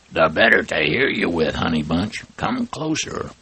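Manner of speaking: lightly voiced sly wolf, mock hoarse; a hint of a wolf playing a sick old lady; wolf faking granny. Wolf posing as grandma.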